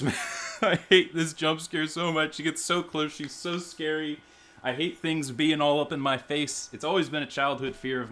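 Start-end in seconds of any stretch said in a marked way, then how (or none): 0.6-4.2 nervous laugh. Real, not acted. Scared player laughing at the jump scare, nervous laugh. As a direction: laugh off the fear.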